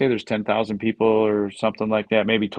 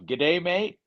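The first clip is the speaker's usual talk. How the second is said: attempted Aussie accent; 6 semitones higher than usual. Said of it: "give us your best Aussie accent".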